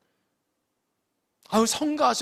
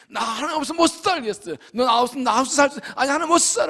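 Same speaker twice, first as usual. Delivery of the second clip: desperate prayer; 6 semitones higher, 7 dB louder, faster than usual. Acted.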